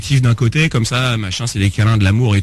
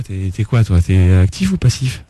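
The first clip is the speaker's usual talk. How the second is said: low, intimate suggestive tone; sensual voice; 6 semitones lower than usual. Acted. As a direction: ask it in a low seductive purr. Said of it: "La voix sensuelle et tout".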